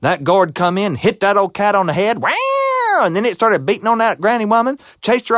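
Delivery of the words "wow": very high yelp of surprise; startled wow. Acted. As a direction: cry out as the gourd hits. Bobcat hit.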